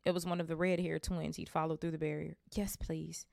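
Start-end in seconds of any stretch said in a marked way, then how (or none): 2.5-3.2 panting, winded reply; out of breath. Acted. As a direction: say it breathless from lifting. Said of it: "Harry panted".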